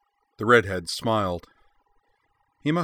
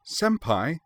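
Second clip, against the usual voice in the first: alarmed call; 8 semitones higher than usual. A narrator's reading. Anne calling out in alarm.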